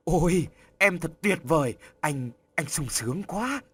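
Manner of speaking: overjoyed burst of delight; reo lên vui sướng. A narrator's reading. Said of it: "Tony reo lên". (Tony reo lên sung sướng khi nghe tin có con)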